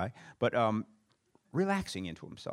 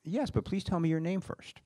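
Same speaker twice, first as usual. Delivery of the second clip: sweetly; 8 semitones higher than usual. Retold or imitated. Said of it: "always says very sweetly".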